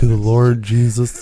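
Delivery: slow, solemn churchy voice; pious voice. Pretend. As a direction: play a devout believer, slowly. Mocking a pious refusal.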